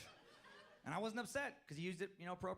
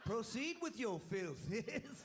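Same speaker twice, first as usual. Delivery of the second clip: mock monarch granting permission to swear; king of profanity; 8 semitones higher, much slower than usual. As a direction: grant the boon like a pompous king. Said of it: "the king of profanity".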